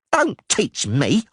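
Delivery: yelled. A narrator's reading. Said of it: "Dainty yelled".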